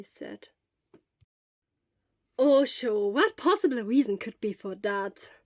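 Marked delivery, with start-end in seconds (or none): 2.4-5.3 cheerful retort. Acted. Hisashi bright and loud.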